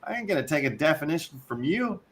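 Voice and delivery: indignant rant. Real, not acted. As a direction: refuse the jargon with indignation. Ranting at the article writer.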